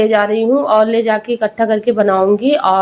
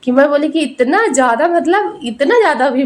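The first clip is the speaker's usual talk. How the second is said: laughing while talking; 4 semitones higher than usual. Real, not acted. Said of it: "इतना हंसी आ रही थी".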